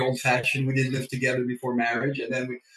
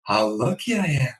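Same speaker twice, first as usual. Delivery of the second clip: grateful; 3 semitones higher than usual. Retold or imitated. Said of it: "I go".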